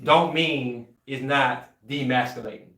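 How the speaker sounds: a little tipsy, words slipping. Real, not acted. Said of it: "Sorry, I'm tipsy".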